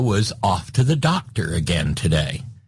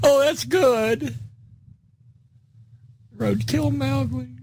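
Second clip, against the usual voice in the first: amused, still laughing; slower than usual. Real, not acted.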